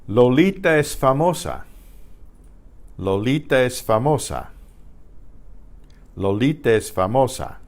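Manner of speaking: Lolita es famosa, stressed on LI and MO; careful teacher's Lolita es famosa, falling at the end; Spanish sentence demo. Shown as a demonstration. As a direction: model Lolita es famosa for learners. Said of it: "Here's a whole sentence".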